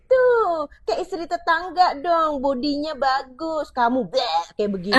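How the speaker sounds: high, slow, taunting comparison; a husband comparing his wife to the neighbour's wife, mocking. Shown as a demonstration. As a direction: jeer at your wife's body. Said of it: "dibandingkan sama istri atau suami kamu".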